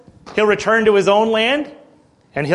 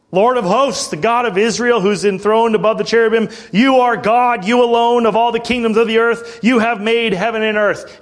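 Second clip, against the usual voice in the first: earnest prayer. Shown as a demonstration. Preacher showing the congregation how to pray, earnest prayer. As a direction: read the prayer as a pleading supplication. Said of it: "Pray like this".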